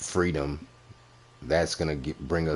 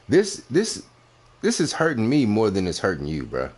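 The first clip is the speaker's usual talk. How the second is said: mock-pained; 5 semitones higher, 4 dB louder than usual. Real, not acted. Mock-pained scolding of rival.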